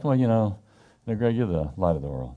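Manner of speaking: casual throwaway "you know, Greg", no weight on "you"; offhand. Shown as a demonstration. Preacher showing how the verse is not said, offhand. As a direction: toss it off like small talk. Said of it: "So it's not like".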